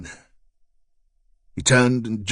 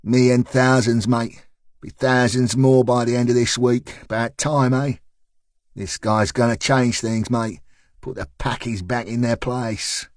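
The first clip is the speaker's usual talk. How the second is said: lightly voiced South London man, recruiting; South London accent. A leaflet man recruiting a jogger, light South London accent. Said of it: "answered in a South London accent".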